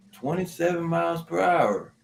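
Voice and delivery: high, held-up mock readout; imitated radar reader. Quoting the character reading the radar, mock-serious announcement. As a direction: call it out high as the man on the radar. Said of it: "He's like".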